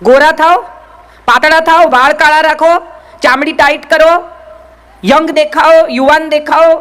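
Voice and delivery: mock TV ad slogans. Speaker to women, mimicking TV beauty ads, punchy slogan voice. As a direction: rattle them off like commercials. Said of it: "જે જાહેરાતો આવે છે".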